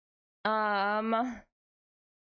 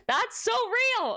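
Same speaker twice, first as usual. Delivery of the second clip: drawn-out agreement; 12 semitones higher, much slower than usual. Real, not acted. Reacting to chat's relatable comment.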